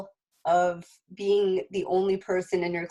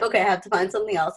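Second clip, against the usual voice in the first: laughing; much faster than usual. Retold or imitated. Laughing retold thought.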